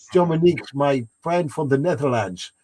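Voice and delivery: put-on Dutch accent; Netherlands accent. Shown as a demonstration. Streamer greeting a chatter from the Netherlands, mock Dutch accent. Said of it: "That's my Netherlands accent".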